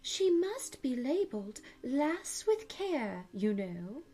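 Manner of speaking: a gentle voice far off suggests labelling Alice; gentle distant voice. Acted. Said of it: "a very gentle voice in the distance".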